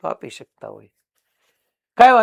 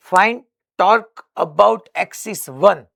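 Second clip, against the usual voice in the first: very slow, a little higher and louder, for students to write; slow dictation; 5 semitones higher, 5 dB louder, much slower than usual. Shown as a demonstration. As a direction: spell it out word by word to the class. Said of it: "તમે ખાલી figure draw કરી રાખો". (ધીમે ધીમે લખાવવું)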